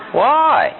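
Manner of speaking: put-on high-pitched childlike question; kid asking why. Speaker imitates kids who are always saying why, childlike question. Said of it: "Kids are always saying what?".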